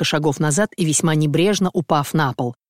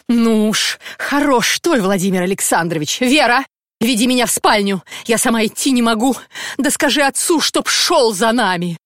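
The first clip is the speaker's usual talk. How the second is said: angry scolding; 4 semitones higher than usual. Acted. Wife scolds husband for not knocking, high angry nag. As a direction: berate him like a shrew.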